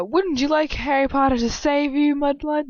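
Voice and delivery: high taunting sneer; mock villain taunt. Reader mocks the villain taunting her. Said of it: "Previously on Days of Our Lives".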